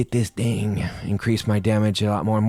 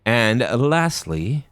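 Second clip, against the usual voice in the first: dramatic announcer; 6 semitones higher, slower than usual. Acted.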